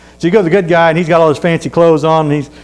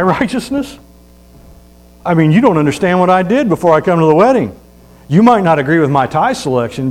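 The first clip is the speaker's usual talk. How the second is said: indignant guest; 2 semitones higher than usual. Retold or imitated. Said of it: "he probably like".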